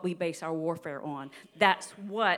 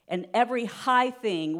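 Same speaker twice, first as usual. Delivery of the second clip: higher, deliberate verse reading; slow scripture reading; 4 semitones higher, 4 dB louder than usual. Real, not acted. Preacher reading Second Corinthians to church, slow and deliberate. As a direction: read it out with emphasis. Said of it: "read this kinda slow".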